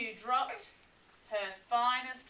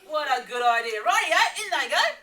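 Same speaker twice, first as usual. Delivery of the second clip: loud laughing, quick and higher; Dingo, gleeful, laughing through it; 5 semitones higher, 12 dB louder, faster than usual. Acted. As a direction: laugh the words out with glee. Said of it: "Dingo laughed".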